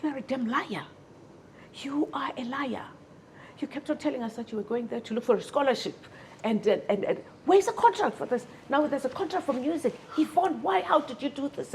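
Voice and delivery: high, loud scolding as the sisters call her a liar; the outraged sisters berating her, pitch climbing; angry sisters. Retold or imitated. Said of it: "my sisters are like".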